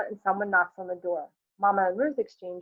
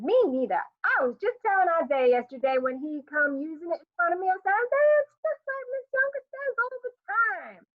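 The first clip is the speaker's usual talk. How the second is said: vigorous squeaky neighbor; 10 semitones higher than usual. A narrator's reading. Johnson quoting herself to Isaiah, vigorous and squeaky. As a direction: agree far too eagerly. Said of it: "Johnson vigorously again".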